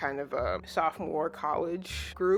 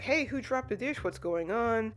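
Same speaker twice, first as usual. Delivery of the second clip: higher, puzzled call; lightly acted surprise at a crash; a hint of startled guests, pitched up; mock startled crowd; 6 semitones higher than usual. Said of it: "Everybody's like".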